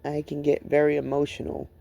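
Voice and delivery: halting, with long pauses to hold it together; real emotion, reflective and restrained; emotional over loss. Real, not acted. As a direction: let the grief break up the sentences. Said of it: "I get very emotional when I think about".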